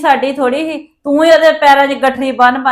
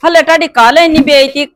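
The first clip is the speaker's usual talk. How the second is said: angry confrontation; 2 semitones higher, 4 dB louder than usual. Acted. Angry relative confronts returning mother-in-law.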